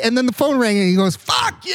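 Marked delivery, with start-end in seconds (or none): 1.1-1.7 urlo. Retold or imitated. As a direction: yell it out high, mid-story. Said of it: "I yelled it out like that".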